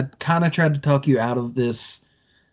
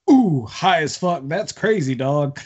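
a lightly voiced stoned Rogan; Joe Rogan impression; 3 semitones higher, slower than usual. Guest imitates Joe Rogan stoned in the background. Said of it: "Joe Rogan ... just being like".

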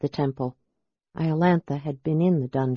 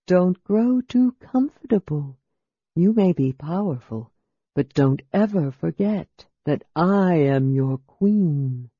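hissing evil queen. A narrator's reading. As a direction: hiss the warning into his ear. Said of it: "voice hissing in his ear".

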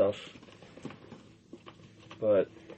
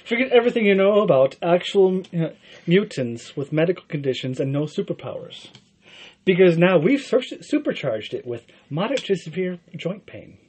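movie trailer voice; 6 semitones higher, 5 dB louder than usual. Acted. Card game, reading a trailer card.

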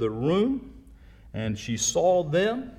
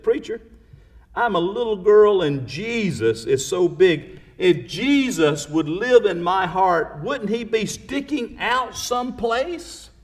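put-on light little girl voice, raised pitch; 7 semitones higher, 3 dB louder than usual. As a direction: ask it like a curious little girl. Little girl's question voiced in story.

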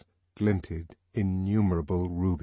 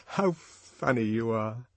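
amused; slower than usual. A narrator's reading. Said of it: "laugh was frank and wholly unmalicious".

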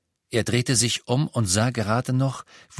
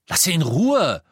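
high, loud snarl; angry hiss; 9 semitones higher, 6 dB louder than usual. A narrator's reading. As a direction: snarl it at Harry. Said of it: "fauchte Ron". (Ron faucht Harry wütend an)

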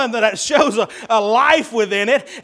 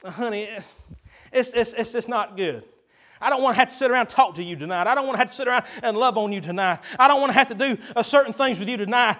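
weary wife; 5 dB quieter, faster than usual. Acted. Wife voiced refusing husband.

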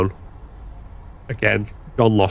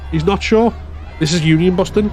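accusing shout; 10 semitones higher than usual. Acted. Striker exposing the foreman to the crowd, accusing shout. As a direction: call him out in front of everyone.

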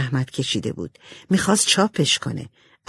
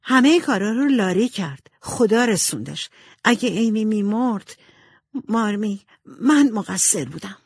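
higher voice, mildly distressed; guilty confession; 4 semitones higher than usual. Acted. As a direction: confess your fault to your mother. (اعترافِ کمی پریشان و پشیمان)

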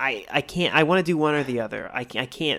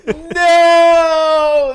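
laughing protest; 12 semitones higher, 6 dB louder than usual. Real, not acted. Horrified at the curse.

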